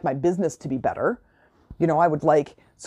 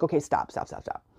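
telling herself to stop; 7 dB quieter than usual. Retold or imitated. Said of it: "And I'm like".

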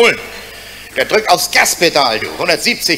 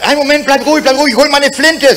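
higher urgent call across the camp; raised urgent call; 6 semitones higher than usual. Acted. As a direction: shout over to his running mate. Friend calls out, lion chasing.

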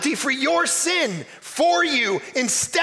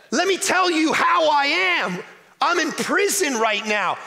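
preached shout; 3 semitones higher than usual. Acted. Preacher voicing Paul from prison.

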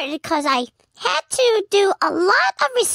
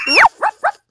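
much higher, much louder yappy woofs; dog barks; 13 semitones higher, 8 dB louder than usual. Pretend. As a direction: yap like an excited little dog. Imitates a dog barking.

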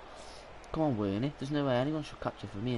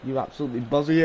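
loud mock admiration; booming ironic compliments; sarcastic praise; 6 dB louder than usual. Real, not acted. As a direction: hype up the opponent sarcastically. Mock-praising opponent loudly.

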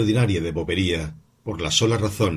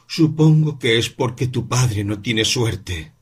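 lenta y amarga; 3 semitones higher, slower than usual. Acted. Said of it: "con lentitud y amargura".

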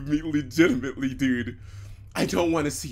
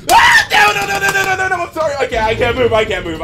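high frantic screams of no; panicked screaming; 13 dB louder, faster than usual. Real, not acted. Player trapped by the game enemy, frantic scream.

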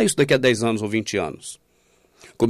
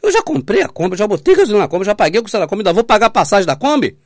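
high, louder whiny complaint; mock complaining brother; 7 semitones higher, 5 dB louder, faster than usual. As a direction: parody a fed-up church member. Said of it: "os irmãos não percebem que falam".

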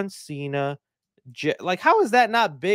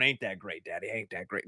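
put-on hushed kid voice; 9 semitones lower, 12 dB quieter than usual. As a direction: lower and much softer, a kid tugging at Dad. Acted kid asking dad.

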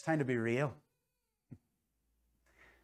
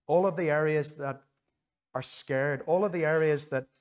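prayer. Real, not acted. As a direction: pray it sincerely over the people. Pastor prays over respondents.

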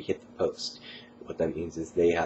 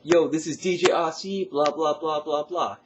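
much higher, louder slangy DJ; Yo, hype it with slang; slangy dance DJ shout-out; 10 semitones higher, 5 dB louder than usual. Shown as a demonstration. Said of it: "if I could even try to imitate it".

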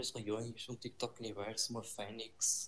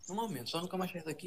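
raised, insistent protest; loud protest; 7 semitones higher, 9 dB louder than usual. Real, not acted. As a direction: cut them off loudly. Arguing over raising the stakes.

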